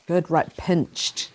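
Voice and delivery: slow, drawn-out good, right, pinched; teacher praising slowly before repeating pinched; slow praise. Shown as a demonstration. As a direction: stretch it out gently. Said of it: "Let's do the sounds".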